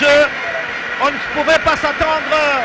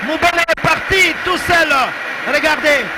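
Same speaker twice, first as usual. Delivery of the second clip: goal call, raised and shouting; excited sports commentary; 5 semitones higher than usual. Real, not acted. Goal called live on radio.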